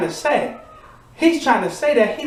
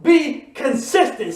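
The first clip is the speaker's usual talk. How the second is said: slow, higher shouted vow; preacher calling the congregation to repeat; call-out declaration; 4 semitones higher, much slower than usual. Shown as a demonstration. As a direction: lead the crowd in a slow shout. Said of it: "Say it with me".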